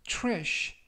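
trash said slowly with a ch-like tr; slow careful trash; teacher modelling trash slowly; model pronunciation. Shown as a demonstration. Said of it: "라고 발음하시면 좋겠습니다".

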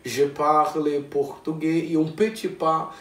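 learner's French. Shown as a demonstration. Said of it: "começou a se apresentar".

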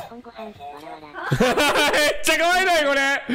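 high gushing squeal over something adorable; squealing cute. Real, not acted. Streamer gushing at a dog clip, high squeal. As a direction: let the pitch fly up, overwhelmed by cuteness.

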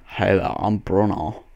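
slow put-on accented greeting; Bruno. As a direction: stretch out the silly self-introduction. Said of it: "if everybody else could just hear".

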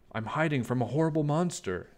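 a hiding toad whispering its worry fast; scared Toad. Acted.

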